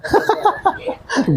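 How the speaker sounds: breathy real laugh. Real, not acted. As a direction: laugh at his own joke. Joke about Yamraj's messengers. (हँसी)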